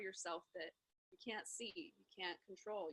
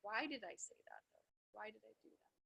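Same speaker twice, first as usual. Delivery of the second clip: loving compassion; 4 dB quieter than usual. Retold or imitated. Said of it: "with loving compassion".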